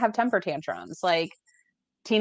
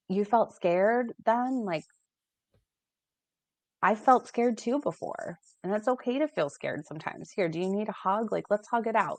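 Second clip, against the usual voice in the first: put-on gently reassuring a scared child, unhurried; validating, gentle; 3 semitones higher, 3 dB quieter than usual. Shown as a demonstration. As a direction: soothe your child, no rush. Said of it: "validating our kids and to say".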